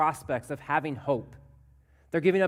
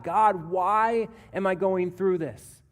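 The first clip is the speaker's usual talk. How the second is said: crying out to God; 3 semitones higher, 4 dB louder than usual. Acted. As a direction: demand an answer from God, imitating a lament. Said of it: "He cries out to God".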